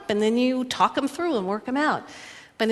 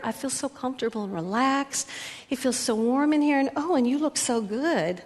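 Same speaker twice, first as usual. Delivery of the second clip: inviting and tender; 3 semitones higher than usual. Retold or imitated. Wife lures husband to bed, tender and inviting. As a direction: coax him with how good she feels. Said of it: "And she said".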